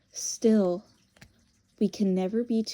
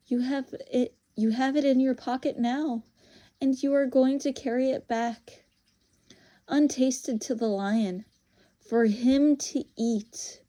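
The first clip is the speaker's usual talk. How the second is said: lightly voiced witch, deliberate and taunting; knowing, scornful witch; 3 semitones higher than usual.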